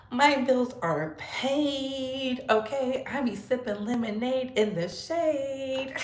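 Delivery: leisurely, lilting show-off delivery; drawn-out boast. Shown as a demonstration. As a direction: stretch out the rhyming words playfully. Playful boast, restated in drawn-out rhyme.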